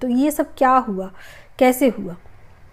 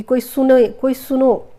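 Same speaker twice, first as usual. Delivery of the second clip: a retold call for help, only a little louder; mild mock yell; 2 semitones higher, 4 dB louder than usual. Woman whose ears went shut, retelling her cry for help, mild mock yell. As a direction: call out as if no one hears you, half-hearted. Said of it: "ऐसे चिल्ला रही हूँ".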